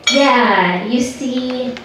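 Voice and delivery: halting, awkward explanation with pauses; tentative, ending on a rise; hesitant explaining. Retold or imitated. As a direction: explain it slowly and gingerly to strangers.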